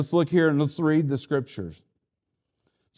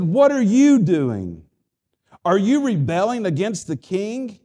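contemptuous scoff; 5 dB louder than usual. Acted. Enemies scoffing at the wall builders, loud contemptuous challenge. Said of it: "they scoffed contemptuously".

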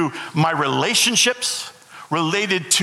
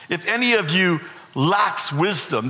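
touch of sarcasm. Acted. Preacher voicing James' verse to the congregation, mildly sarcastic. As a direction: let a little dry irony weigh on each word. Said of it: "there's a bit of sarcasm there in James' tone".

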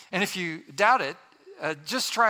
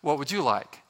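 gentle voice; 2 semitones lower than usual. Acted. Husband turning to his wife to ask, gentle. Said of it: "says in a gentle voice".

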